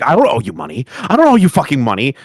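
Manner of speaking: mock-ranting, picking up speed on the repeat; imitated addict screaming. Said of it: "he sounds like an addict, like screaming at Keem".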